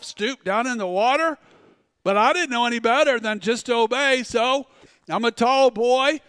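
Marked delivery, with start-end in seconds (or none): 0.0-1.4 repeating the order back, rising at water; baffled, checking he heard right; puzzled question. Retold or imitated. Young Christian questioning the inner voice in the lake, puzzled. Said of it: "What? Did I just say that to myself?".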